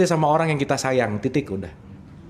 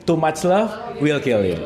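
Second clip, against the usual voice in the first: laughing song quote; 4 semitones lower, much slower than usual. Retold or imitated. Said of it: "kata Queen".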